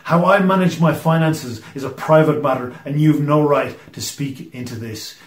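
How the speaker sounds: offended indignation. Retold or imitated. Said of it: "respond with offended indignation".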